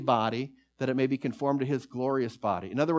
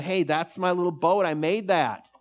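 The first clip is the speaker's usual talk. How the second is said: put-on a boy's eager, higher call; excited boy; 4 semitones higher, 3 dB louder than usual. Boy to store owner, excitedly claiming his boat. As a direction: blurt it out, thrilled to find his boat. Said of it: "He's all excited".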